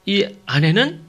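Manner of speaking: usual speaking voice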